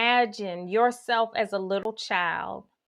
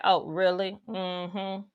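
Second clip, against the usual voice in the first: sassy self-talk; 3 semitones lower than usual. Acted. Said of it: "you would probably say something like".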